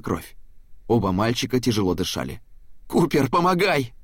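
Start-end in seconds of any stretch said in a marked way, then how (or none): 2.9-3.9 command. A narrator's reading. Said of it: "скомандовал Берг".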